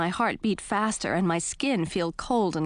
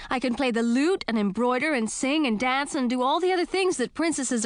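indignant shout; 6 semitones higher than usual. A narrator's reading. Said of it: "I tried to shout over their laughter".

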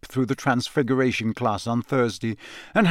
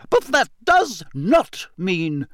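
slow, higher, deliberate teacher; stern warning; 6 semitones higher, slower than usual. A narrator's reading. McGonagall warning students about behaviour, stern. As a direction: lay down the law. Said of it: "McGonagall warns the class".

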